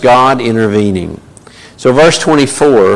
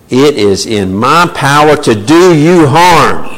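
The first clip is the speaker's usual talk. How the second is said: empty threat bluster; 4 semitones higher, 3 dB louder than usual. Acted. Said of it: "That is all bluster".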